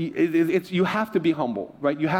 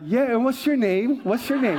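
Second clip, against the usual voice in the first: pitched-up, challenging question; mock pointed retort; 5 semitones higher than usual. Pastor asking the agent's name back, mock pointed retort.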